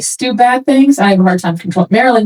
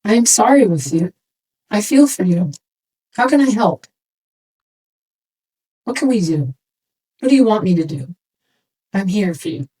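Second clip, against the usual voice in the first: sympathetic. Retold or imitated. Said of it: "match the energy".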